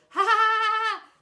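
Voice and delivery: high, loud jeering laugh. Acted. Boys laughing at stuck teacher, jeering. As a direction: laugh at him together. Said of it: "they all laughed".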